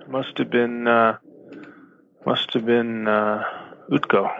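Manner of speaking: talking through a mouthful of food; chewing while he speaks; mouth full. Real, not acted. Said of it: "It's hard to say with your mouth full".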